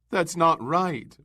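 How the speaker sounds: drawn-out, high wail; wailing, slowly. A narrator's reading. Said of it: "wailed Missus Bowles".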